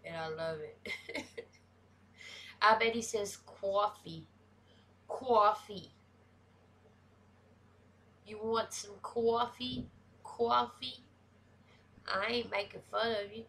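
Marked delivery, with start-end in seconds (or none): 3.5-5.9 imitated heavy northern "cawfee", louder; northern accent. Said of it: "such a heavy northern accent". 8.2-11.0 higher, playful imitation of a northern accent. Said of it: "such a heavy northern accent".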